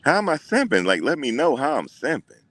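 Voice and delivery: high, mocking squeaky voice, jumping way up; mocking high whine. Streamer mocking a chat commenter's question, high and whiny. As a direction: parody the commenter in a pinched high pitch. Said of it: "He said".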